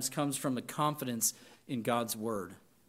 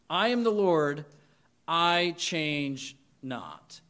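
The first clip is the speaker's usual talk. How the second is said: quiet repetition; much slower than usual. Shown as a demonstration. Pastor repeating the verse softly for the congregation to absorb. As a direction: let it settle gently. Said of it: "and it's this".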